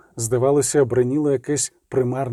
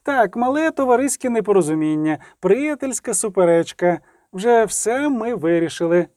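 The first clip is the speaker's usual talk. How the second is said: slightly trembling voice; 6 semitones higher than usual. Acted. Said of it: "трохи тремтливим голосом".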